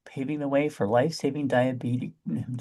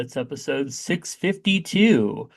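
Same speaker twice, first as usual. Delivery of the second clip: lightly put-on announcer voice; a hint of fake announcer; Don Pardo; 3 dB louder than usual. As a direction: open the show like a TV game-show host. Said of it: "I was doing my Don Pardo".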